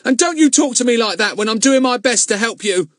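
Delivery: panting. Acted. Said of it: "panted Ern".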